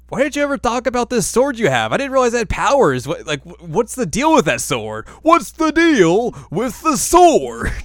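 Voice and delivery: high frantic imp voice; shrill servant voice. Retold or imitated. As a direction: pester the master in a panicky squeak. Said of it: "and he's like".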